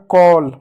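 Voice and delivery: कॉल drawn out as "kawl"; teacher's slow model of कॉल with open "aw"; demonstrated open vowel. Shown as a demonstration. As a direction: hold the "aw" in कॉल slowly. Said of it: "ए को औ की मात्रा लिखें".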